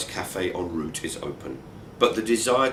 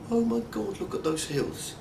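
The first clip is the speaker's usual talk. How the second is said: awed proclaiming; 12 semitones higher, 4 dB quieter than usual. Retold or imitated.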